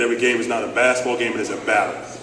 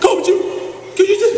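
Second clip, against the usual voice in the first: pleading player. Retold or imitated.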